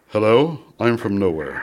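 lightly mocked neutral announcer; hint of a from-nowhere broadcast voice; placeless announcer voice. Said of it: "having that voice that says".

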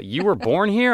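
high, incredulous mock official; consulate official. The consulate official asking in a high, incredulous voice. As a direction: squeak out the disbelieving clerk.

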